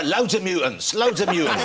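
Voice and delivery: brash laughing market-trader shout; Harry Enfield Loadsamoney voice. Retold or imitated. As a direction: chant it like a cocky wide boy. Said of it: "Harry Enfield's kind of wonga mad character".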